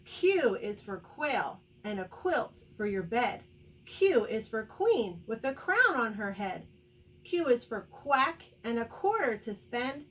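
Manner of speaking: bouncy, rhythmic letter cheer; rhyming cheer. Shown as a demonstration. Teacher leads children in letter Q rhyme, cheer. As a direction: chant it with punch on key words. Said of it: "here's our cheer for the letter Q".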